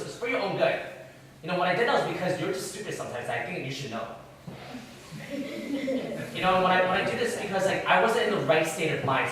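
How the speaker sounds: mock whiny excuse-making, building in insistence; whining self-defence. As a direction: plead your case like someone dodging blame. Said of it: "You whine. You say".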